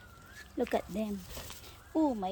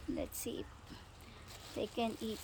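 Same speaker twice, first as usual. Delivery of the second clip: whispering; 11 dB quieter, slower than usual. Real, not acted. Hushed while watching birds.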